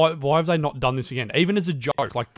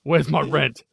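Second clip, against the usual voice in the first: louder, impatient landlord demand; gruff impatient scolding; 6 dB louder, slower than usual. Pretend. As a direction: bark at the tenant for rent.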